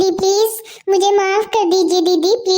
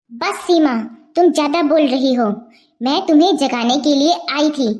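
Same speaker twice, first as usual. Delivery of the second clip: put-on lower, firm older sister scolding; stern elder sister; 4 semitones lower than usual. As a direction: put her younger sister in her place. (बड़ी बहन की सख़्त डाँट)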